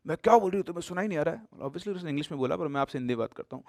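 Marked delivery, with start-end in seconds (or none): 0.1-1.5 louder, sharp mock-angry question; irritated demand, loud on क्या; angry retort. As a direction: snap it at her like a scolding stranger. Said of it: "बहुत तेज गुस्से में बोली".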